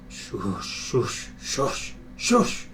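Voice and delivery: soft breathy steam shushes; mournful quiet shush. A narrator's reading. Gordon sneaking back, quiet mournful shushing. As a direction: sigh out the steam sadly. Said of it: "a mournful, quiet".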